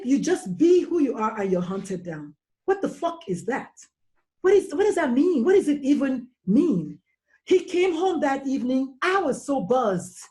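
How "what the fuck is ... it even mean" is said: higher, exasperated outrage; outraged questions. Real, not acted. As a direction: demand an answer in disbelief. Mother's outrage at sons' treatment.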